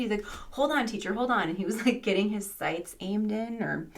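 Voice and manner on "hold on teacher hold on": higher-pitched, mildly eager plea; imitating excited pupil. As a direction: lightly mimic a keyed-up kid asking for a moment. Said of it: "he was so excited".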